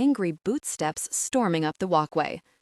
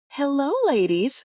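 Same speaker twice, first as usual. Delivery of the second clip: Georgia twang; 8 semitones higher, 4 dB louder than usual. A narrator's reading. Kristen breezing in, greeting the sisters in a Georgia twang. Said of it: "she twanged in her Georgia accent".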